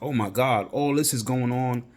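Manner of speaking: a hint of a flustered friend; overwhelmed friend. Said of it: "they're like".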